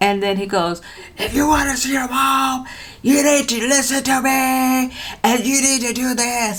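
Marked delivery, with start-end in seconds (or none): 1.2-6.6 furious, raging, pitched-up voice. Retelling a man on the phone making demands about her mom: retelling a raging threat. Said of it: "this guy is like just raging on the phone".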